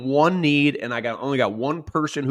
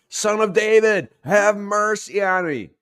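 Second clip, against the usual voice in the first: much higher, much louder cry for mercy; desperate shout; 9 semitones higher, 5 dB louder than usual. Acted. Blind beggar shouts over the crowd to Jesus, loud. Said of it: "He shouts all the more".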